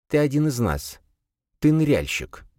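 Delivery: high, lisping stranger voice; slushy lisp. Acted. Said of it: "Шепелявый голос и красноречивый шелест".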